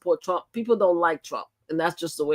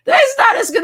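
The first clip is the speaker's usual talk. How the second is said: words squeezed out through laughter, much higher and louder; laughing while talking; 9 dB louder than usual. Real, not acted. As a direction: try to talk but keep laughing. Still laughing after the outburst.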